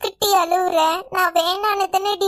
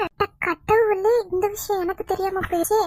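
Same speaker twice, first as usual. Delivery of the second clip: mock dismay. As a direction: stretch it out like staged surprise. Sister-in-law fakes dismay.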